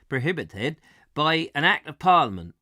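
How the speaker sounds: retry Prohibited with a West Country burr; West Country accent. Retold or imitated. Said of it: "it's difficult to say in a West Country accent".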